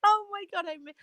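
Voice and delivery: joyful reunion. Real, not acted. Joyful reunion with old friend.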